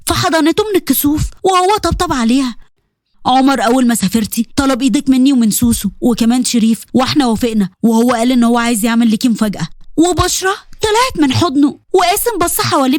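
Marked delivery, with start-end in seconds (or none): 3.3-9.7 lowered brother's voice, reassuring; a hint of an older brother explaining; Qasem's voice. Brother telling Bushra about the surprise, lowered.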